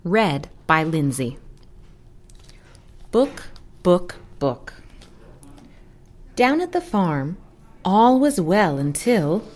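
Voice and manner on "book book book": clucked hen book; hen clucking book. Acted. Title repeated as hen sound.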